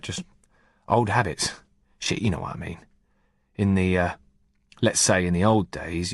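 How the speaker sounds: casual, knowing soldier talking shop; lightly voiced corporal. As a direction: tough corporal explaining himself. Heaton justifies himself to Sean.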